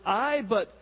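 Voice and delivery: slow, lightly imitated Scottish accent; a hint of Scottish in a slow punchline. Scotsman topping the Texan's potato brag, slow mock Scottish accent. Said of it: "The Scotsman said".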